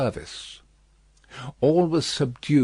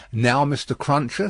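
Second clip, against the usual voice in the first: lightly voiced Miss Pross; 3 semitones higher than usual. Miss Pross briskly addresses Jerry, lightly voiced. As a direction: play the bustling housekeeper lightly.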